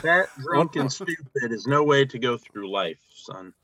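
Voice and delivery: slow, stern dean lecturing a student; movie quote voice. Retold or imitated. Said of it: "That's one of them quotes".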